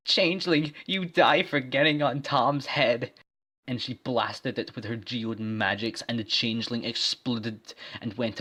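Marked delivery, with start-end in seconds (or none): 0.1-3.1 threat. Acted. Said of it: "and said".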